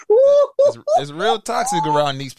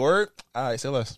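lower, quieter shrug-off; cool dismissive; 5 semitones lower, 4 dB quieter than usual. Retold or imitated. Imitating a guy shutting down the fight, low and cool. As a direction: say it flat and done. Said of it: "All they gotta be like".

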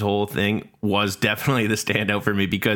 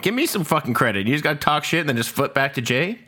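higher-pitched, affronted complaint; indignant protest; 5 semitones higher than usual. Real, not acted. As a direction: demand credit like you've been snubbed. Protests at being denied credit.

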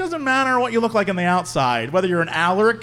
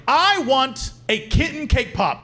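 put-on slightly raised, slow kid's demand; demanding little child; 4 semitones higher, slower than usual. Littlest child pestering mom for a cake pop, demanding. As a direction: draw out a small child's demand. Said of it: "littlest child who was there".

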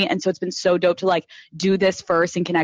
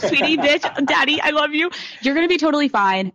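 mock-doting mother, a bit higher; hammed-up motherly coo; 5 semitones higher than usual. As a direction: gush like a mother fussing over her child. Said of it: "I'm, like, acting like your mother".

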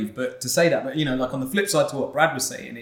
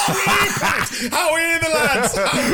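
high, drawn-out mock Newcastle holler; hammed-up Newcastle accent; 11 semitones higher, slower than usual. Shown as a demonstration. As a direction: call out in a put-on Newcastle accent. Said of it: "It's not from Newcastle".

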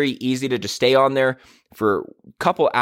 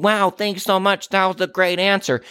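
gushing thanks; 7 semitones higher than usual. Retold or imitated. Mocking newbie's gushing thanks.

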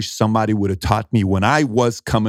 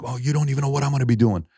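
higher, fast retort without extra volume; mock-indignant comeback, pitched up; retold emotional defiance; 6 semitones higher, faster than usual. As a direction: imitate someone stung and vowing to act. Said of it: "And he gets emotional".

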